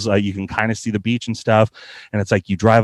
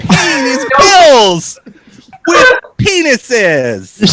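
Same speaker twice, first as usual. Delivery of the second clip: very slow, high, laughing drawl; 13 semitones higher, 5 dB louder, much slower than usual. Real, not acted. Punchline about his first gig, laughing slowly. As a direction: stretch it out while cracking up.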